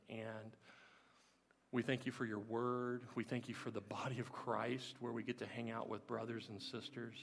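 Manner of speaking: calm, earnest prayer voice; closing prayer. Acted. Pastor praying over the congregation after the sermon, calm earnest prayer. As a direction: talk to God gently for the whole room.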